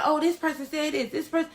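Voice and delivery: mimicked gossip. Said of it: "you gonna be like".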